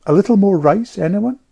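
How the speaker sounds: lightly voiced hostess at table; hostess offering food. A narrator's reading. Hostess offers rice brightly.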